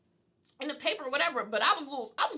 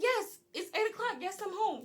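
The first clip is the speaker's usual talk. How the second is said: higher-pitched, put-upon reply; exasperated answer; 6 semitones higher than usual. Retold or imitated. Answering the ISP officer's check-in call, exasperated. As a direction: act out an impatient yes.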